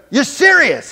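loud, very high-pitched disbelief; astonished question. Retold or imitated. Man finally believing the healed man, astonished question. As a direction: ask it as if stunned, voice soaring.

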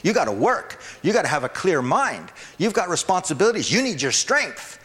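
voice of the flesh. Acted. Preacher acting his flesh, arguing against fasting. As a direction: play the doubting flesh, half-mocking. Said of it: "this other voice goes".

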